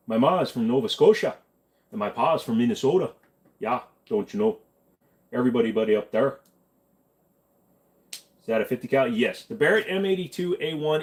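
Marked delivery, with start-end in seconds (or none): 0.1-6.4 put-on a light Canadian-Minnesotan accent. Answering a request for a Canadian voice, light Canadian accent. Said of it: "Do you think you can do a Canadian one".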